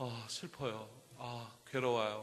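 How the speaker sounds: mild, low, soft, slow, sighing mock lament.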